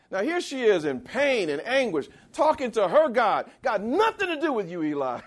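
high, loud preaching at full force; fervent preaching. Acted. Preacher defends Hannah against Eli, high and fervent. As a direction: rise up in her defence.

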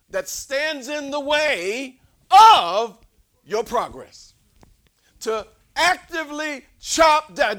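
high, loud, shouted climax; full-force preaching. Acted. Preacher shouting to the church about chopping down obstacles. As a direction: shout it to chop down what blocks them.

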